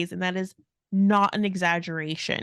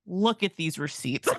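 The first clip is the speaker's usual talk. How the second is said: abrupt switch to businesslike; 2 semitones lower than usual. Retold or imitated. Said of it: "such an abrupt change".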